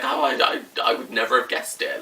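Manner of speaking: half-hearted squeaky imitation of her; lightly mimicking a friend's shocked squeak; imitating friend. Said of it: "she's like".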